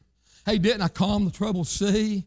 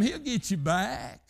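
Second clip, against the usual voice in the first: reassuring; 3 semitones higher, 4 dB quieter, slower than usual. Acted. Calm reassurance after the climax.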